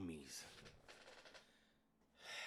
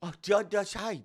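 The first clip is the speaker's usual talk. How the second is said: high mocking imitation, louder; baby talk; 9 semitones higher, 6 dB louder than usual. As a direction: parrot his baby talk. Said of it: "is he baby talking us".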